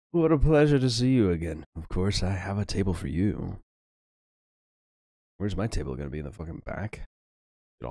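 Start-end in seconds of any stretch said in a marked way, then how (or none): 0.1-3.6 snooty waiter. Acted. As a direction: greet the rich guests with gushing delight. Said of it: "says the maitre d'".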